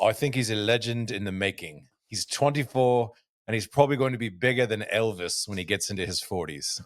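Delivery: put-on a light South African accent, exasperated; a hint of South African, like Els sighing to the press; Ernie Els impression. Els tells the media about Tiger, mild South African accent. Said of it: "that's my first attempt at an Els".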